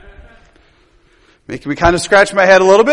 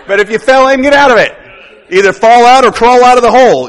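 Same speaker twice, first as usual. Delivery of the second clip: emphatic urging; 4 semitones higher, 6 dB louder than usual. Real, not acted. Preacher urging listeners to climb out.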